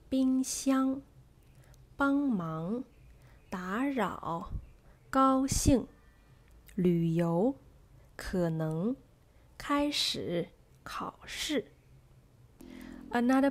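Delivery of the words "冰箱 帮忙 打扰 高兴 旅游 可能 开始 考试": careful isolated words, weight on the second syllable, as in 帮忙; medium-stressed then stressed. Shown as a demonstration. Teacher has learners follow along, second syllable stressed. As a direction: model each word like 冰箱 with the second syllable stronger. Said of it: "into medium stressed and stressed positions".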